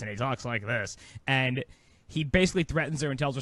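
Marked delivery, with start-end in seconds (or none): 0.0-1.0 lightly imitated criminal voice; a hint of a blackmailer, slightly lower; softly put-on crook's voice. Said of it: "he does this criminal voice".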